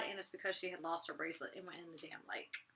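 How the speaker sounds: hushed aside whisper. Real, not acted. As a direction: whisper it like a secret.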